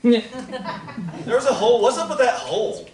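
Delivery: laughing repeat. Real, not acted. Laughing while repeating the question.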